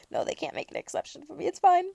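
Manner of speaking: normal talking voice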